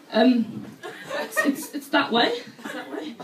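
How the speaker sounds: nervous, laughing stammer; a flustered local waving him off; flustered pointing. Retold or imitated. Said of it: "I was like".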